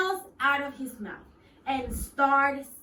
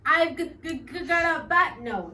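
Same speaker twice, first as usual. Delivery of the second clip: stammering, a touch louder; nervously; 4 semitones higher, 6 dB louder than usual. Acted. Bird admits his bad note to the worm, nervous stammer. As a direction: stutter it out nervously. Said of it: "said nervously".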